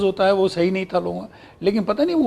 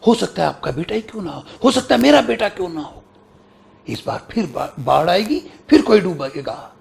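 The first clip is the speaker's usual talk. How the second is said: sadhu stage line. Retold or imitated. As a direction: recite like a sadhu foretelling the flood. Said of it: "वो साधु जैसा role था".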